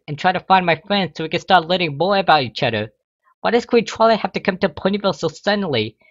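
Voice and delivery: boil over before dashing out; frustrated outburst. A narrator's reading. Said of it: "Frustration boiling over".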